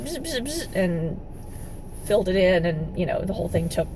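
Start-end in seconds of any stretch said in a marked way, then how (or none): 0.0-0.7 quiet buzzing drill noise; imitated drill buzz. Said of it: "kinda went".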